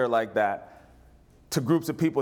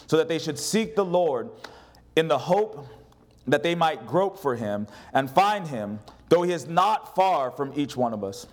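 raised, measured Bible reading; solemn scripture read from the pulpit. Acted. Preacher reading scripture aloud.

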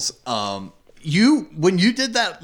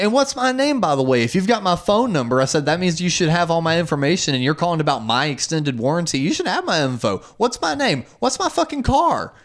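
mock exasperated rant; 2 semitones higher than usual. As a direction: fire the questions back at the caller. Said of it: "And I'm just like".

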